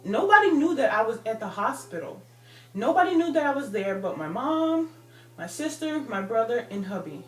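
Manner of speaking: real disbelief pouring out; indignant outburst. Real, not acted. Telling viewers about the creepy caller, loud and indignant. Outraged at the anonymous threat.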